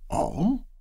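hollow, high startled question. Acted. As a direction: Bashford echoing Loretta, hollow voiced. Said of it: "he asked in a hollow voice".

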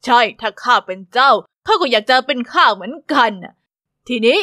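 a gentle royal welcome, a touch regal; lightly voiced stately king; King Edward.

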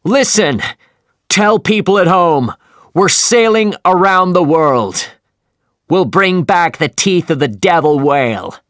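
a captain shouting his defiant plan; shouted. Acted. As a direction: bellow a message across the waves. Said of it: "he shouted".

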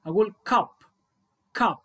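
كاب with a short open a, not كو; short vowel. Shown as a demonstration. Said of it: "ما قلتش كو". (كاب بحرف قصير)

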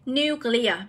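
nuclear stressed on the first syllable, NU; NU-clear, teacher's citation form. Shown as a demonstration. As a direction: model "nuclear" with the weight on "nu". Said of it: "nhấn vào âm một".

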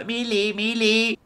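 mock mother calling her girl in a high voice; mom calling out. Streamer mimics a mother calling her daughter, high and fond. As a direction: sing out the name like a fond mom.

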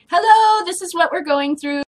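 loud, high-pitched hello to the world; calling out. Acted. Airing their problems to viewers, calling out loudly. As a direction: announce it loudly, pitched well up.

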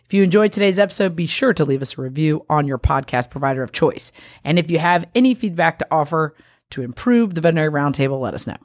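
bright-paced, brisk show opener with lifted pitch; scripted podcast host intro; podcast intro read. Acted. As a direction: welcome listeners in a quick, rehearsed host read.

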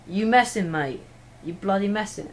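attempted modern-day English street accent. Shown as a demonstration. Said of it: "now modern day English".

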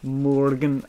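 MORGAN drawn out, savouring the first syllable; imitating gnome's pronunciation. Player echoing a gnome's word he loves, imitated pronunciation of Morgan. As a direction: say Morgan long and rounded, like the gnome. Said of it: "the way that that gnome pronounced the word Morgan".

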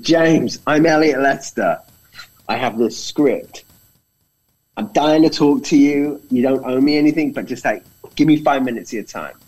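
high, loud, eager pitch to a star; eager plea. Retold or imitated. Young director begging James Woods for five minutes, eager and high. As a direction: rush the plea, breathless with hope.

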